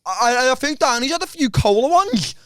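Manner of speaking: imitated lisp, s sounds slurred to sh; lisping colleague. Lisping colleague telling on Danny, imitated lisp. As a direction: mimic a lisping, stammering tell-tale. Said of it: "but he had a lisp".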